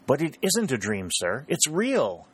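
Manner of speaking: bright, eager, joyful exclaim. Acted. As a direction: burst out with happy news. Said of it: "exclaimed Harry joyfully".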